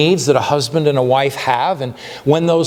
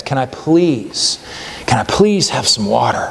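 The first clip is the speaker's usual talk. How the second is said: mild begging; slower than usual. Retold or imitated. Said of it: "he practically begs".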